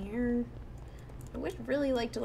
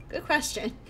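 put-on higher, playful kid echoing a question; little kid voice; 5 semitones higher than usual. Ghost kid dodging the player's question, little kid voice. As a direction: chirp it like a cheeky child. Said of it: "I'll just give it a little kid voice".

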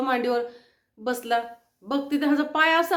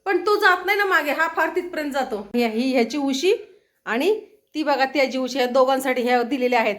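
ordinary delivery

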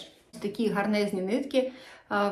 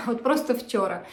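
laughing through the words; 3 dB louder than usual. Real, not acted. Crafter amused at her own quick start, laughing. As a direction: repeat it with a real laugh.

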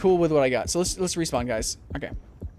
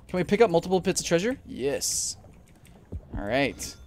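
ordinary talk

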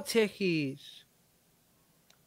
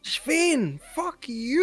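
higher louder insult; loud curse; 7 semitones higher, 3 dB louder, much slower than usual. Real, not acted. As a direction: throw it out loud. Two insults said differently.

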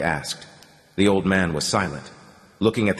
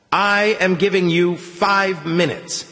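veiled threat; 8 semitones higher, slower than usual. A narrator's reading. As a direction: lean on each word like a threat. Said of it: "poorly concealed threat in Melnick's voice".

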